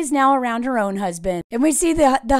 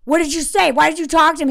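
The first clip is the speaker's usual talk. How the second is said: imitated defensive questioning; mildly acted interrogation; mock accusatory. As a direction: fire questions like a suspicious husband. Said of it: "He gets so accusatory and defensive".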